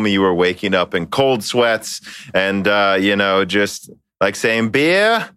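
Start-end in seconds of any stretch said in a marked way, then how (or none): 4.7-5.3 hammed-up Boston accent, pitched way up; mock Boston yell. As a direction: shout "Beer?" like a Bostonian with no r. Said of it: "and in Boston accent".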